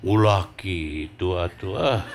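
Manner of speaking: low, slow Sundanese lilt; Sundanese accent. Acted. Sundanese man telling Javanese off, in a slow Sundanese accent. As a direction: drawl it out like a Sundanese local. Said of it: "Orang Sunda bilang".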